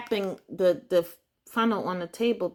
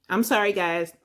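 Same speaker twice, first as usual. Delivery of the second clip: laughing; 5 dB louder than usual. Real, not acted. Embarrassed while spitting on camera.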